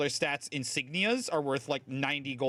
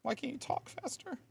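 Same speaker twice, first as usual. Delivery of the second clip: exasperated; 14 semitones higher than usual. Real, not acted. Annoyed at slow NPC.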